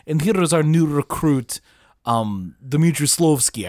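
lightly put-on British officer accent. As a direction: introduce a recruit in mock British. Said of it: "have British accents".

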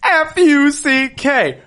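high loud slow letter-by-letter spelling; spelled out and yelled. Shown as a demonstration. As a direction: lead a chant, F U C K, then punch Fuck. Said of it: "Say it with me".

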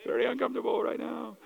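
mock uncomfortable. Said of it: "comment on awkward scene".

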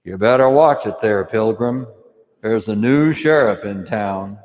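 a hint of the tough sheriff warning; John Wayne impression. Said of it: "he would always say something like this".

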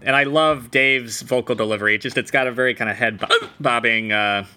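words broken by hiccups; speaking through hiccups. Real, not acted. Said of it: "hopefully I can break this soon".

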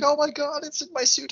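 high-pitched imitation of panic; mock freaking out. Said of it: "he's, like, freaking out".

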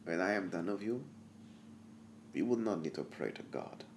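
mad doctor voice. Acted.

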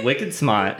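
put-on slow Boston accent, R dropped in "smart". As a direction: say it like a Boston local. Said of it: "two other Boston terms".

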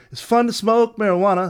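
high, loud eerie sing-song; imitating the hidden backwards message. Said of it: "like that".

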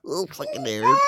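loud, high laughing fit; hysterical laughter. Real, not acted. Host losing it at the fan impression, laughing loud and high. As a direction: crack up helplessly.

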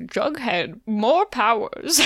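very slow, faux-British Percival voice; Percival accent. Co-host voicing Percival writing in his notebook, drawn-out mock-British accent. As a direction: draw it out in a fake British accent. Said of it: "we both do the same Percival accent".

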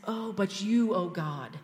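David turning to praise God; hopeful praise. Retold or imitated. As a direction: lift your eyes in praise. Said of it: "he looks up and he says".

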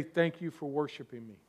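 low, hushed voice of God; soft, low near-whisper; imitated whisper. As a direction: say it very softly and low, as if whispered from heaven. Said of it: "then he heard a whisper".

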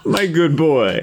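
a slow, amused take on the dealer's line; mock mimicry. Player repeating the dealer's phrase, slow and teasing. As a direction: draw it out, laughing. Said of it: "trying to assimilate their, like, the way they talk".

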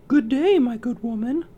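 put-on high, sweet girl voice; polite high young girl; girlish voice. Snow White greets peddler.

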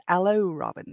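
put-on light East Midlands Sheriff of Nottingham accent. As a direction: greet Robin in a playful East Midlands villain accent. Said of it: "in my best Sheriffs of Nottingham accent".

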